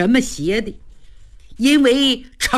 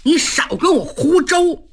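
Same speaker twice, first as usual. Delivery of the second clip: scoffing; 6 semitones higher than usual. A narrator's reading. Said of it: "雷大彪气乐了".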